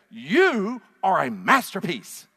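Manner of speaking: slow, loud and emphatic; emphatic declaration. Shown as a demonstration. Preacher showing the congregation what to tell their neighbor, emphatic. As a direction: proclaim it with force, drawing out each word. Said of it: "say this real emphatic to them".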